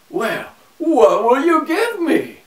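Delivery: high, squeaky little man asking a price; a small trickster drives a bargain; sly little man. A narrator's reading.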